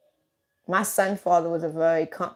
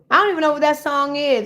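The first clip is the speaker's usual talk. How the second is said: exasperated repeat; 5 semitones higher, faster than usual. Real, not acted. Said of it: "repeated higher, faster".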